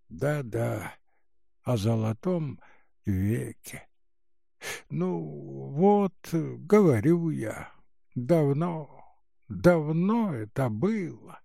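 тихий низкий старушечий голос; вяло шамкать, по-старушечьи; шамкающая старуха. Acted. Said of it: "шамкала старуха". (старческое бормотание)

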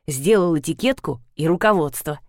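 ordinary delivery, nothing marked

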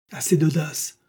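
a narrated husband's mild roar. A narrator's reading. Husband cuts off his wife's excuse, mildly roaring. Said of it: "rugit notre raffineur".

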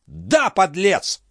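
very high, slow drawn-out outcry; furious accusation. Acted. Philippe accusing Balsamo of dishonour, slow furious outcry. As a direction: stretch the insult out in fury.

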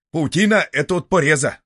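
высоко и громко, настойчиво; перекричи другого советчика; спорящий советчик. Acted. Спор советчиков. (громко, высоко настаивает)

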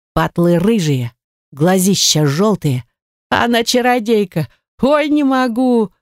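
high, wheezing cackle through the words; hysterical laughter. Acted. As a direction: laugh until you can barely speak. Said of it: "дикий надрывный хохот, прерываемый истеричными всхлипами". (истерично хохоча сквозь слова)

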